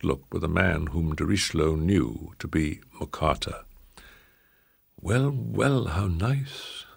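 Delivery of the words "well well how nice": lisping. A narrator's reading. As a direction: lisp it out smoothly. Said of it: "the bald man lisped".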